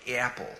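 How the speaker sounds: the A in "apple" glides like two vowels, northern American; diphthong A. Shown as a demonstration. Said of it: "your A's have, like, a diphthong".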